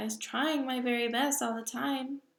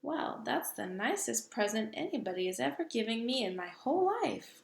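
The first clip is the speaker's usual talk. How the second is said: delighted cry; 3 semitones higher than usual. Acted. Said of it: "cried the B F G".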